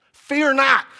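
high, loud angelic proclamation; commanding angel. Retold or imitated. Pastor voices angels to frightened people, commanding.

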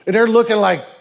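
ordinary delivery

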